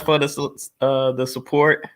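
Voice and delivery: a small hitch, then recover; stuttering. Real, not acted. Host thanks viewers for support, stuttering slightly. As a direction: stumble on the word and restart. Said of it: "there I go stuttering again".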